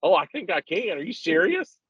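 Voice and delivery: dad doing his nervous son; imitating his son. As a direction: play the unsure kid asking if Dad means it. Father voicing his teenage son.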